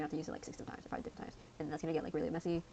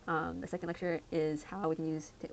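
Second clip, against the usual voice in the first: voice crack. Real, not acted. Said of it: "wow, voice crack".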